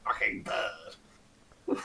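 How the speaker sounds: breathy under-the-breath curse; whispered swear. Acted. Lord muttering about the bird, whispered aside.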